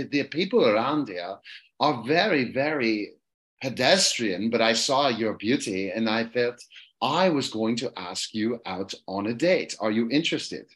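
put-on aristocratic London accent, measured and halting. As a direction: woo a commoner as a British duke. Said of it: "I'll do the London accent".

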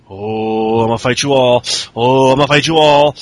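mock Cena taunt. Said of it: "Cena's doing that all".

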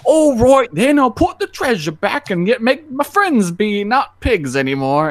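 high, loud yokel; simpleton voice. Retold or imitated. Simpleton promising to return the treasure, high and loud. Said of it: "He's like".

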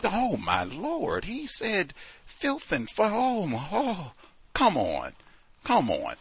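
high, slow, clutching-pearls gasp; hammed-up churchlady horror; mock scandalized. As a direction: play shocked at a dirty word. Mocking shock at a curse word.

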